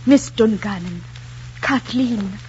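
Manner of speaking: slow, earnest suitor's plea; tender, heartfelt proposal. Shown as a demonstration. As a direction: play a suitor moved by his feelings. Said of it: "in a tone which trembled with the force of his feelings".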